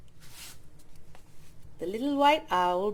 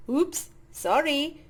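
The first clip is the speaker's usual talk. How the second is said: embarrassed; 4 semitones higher, slower than usual. A narrator's reading. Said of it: "she blushed".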